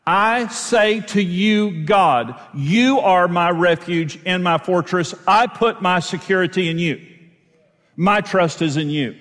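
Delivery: slow, earnest prayer spoken to God; heartfelt prayer. Shown as a demonstration. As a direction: pray it out slowly, from the heart. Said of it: "this is gonna come out of my mouth in my prayer time".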